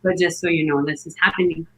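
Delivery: low, matter-of-fact reassurance; very calm. Retold or imitated. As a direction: imitate a midwife calmly keeping everyone informed. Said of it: "it was just very calm".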